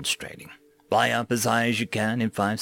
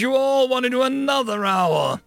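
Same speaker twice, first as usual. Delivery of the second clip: bellowing; 8 semitones higher than usual. Acted. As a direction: bellow a threat at the recruits. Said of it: "the drill instructor bellowed".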